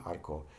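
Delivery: arco with one quick tongue flap on the R; single flapped R. Shown as a demonstration. Teacher demonstrating single R, one flap in arco. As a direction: tap the R just once in arco. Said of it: "flap your tongue once".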